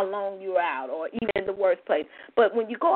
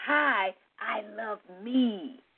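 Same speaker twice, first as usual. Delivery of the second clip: calm sincere greeting; 4 dB quieter, much slower than usual. Shown as a demonstration. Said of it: "So that's why I say".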